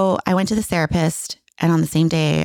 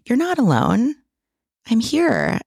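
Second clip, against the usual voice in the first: higher-pitched imitation of a reassuring husband; retold reassurance; 7 semitones higher, slower than usual. Husband tries to comfort his upset wife, retold reassurance.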